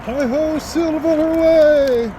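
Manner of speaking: high, loud, drawn-out cowboy holler; cowboy rallying call. Pretend. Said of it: "Feel like a cowboy".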